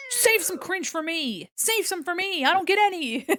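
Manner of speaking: high, loud playful whine; mock whining. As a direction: whine like a left-out kid. Mock whining about cringe.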